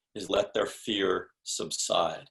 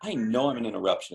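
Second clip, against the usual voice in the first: knowing tone; 3 semitones higher, faster than usual. Shown as a demonstration. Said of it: "If you say it in that tone".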